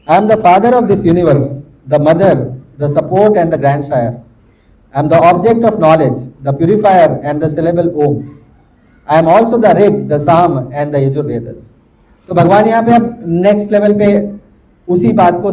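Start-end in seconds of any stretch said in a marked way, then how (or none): 0.1-11.6 slow, measured reading of a translation; deliberate recital in separated phrases; scripture reading. Real, not acted. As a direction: read the verse out phrase by phrase, falling at each close. Reads the verse translation aloud.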